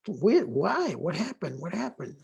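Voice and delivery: retold anxious questions, pitch swooping up and down; mock alarm. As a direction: ask it like someone dreading the answer. Retelling his worried reply to sister.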